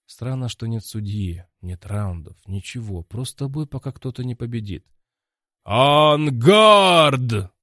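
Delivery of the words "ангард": loud, higher ringside call; loud shout. A narrator's reading. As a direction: call the start across the cage. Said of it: "раздался громкий крик".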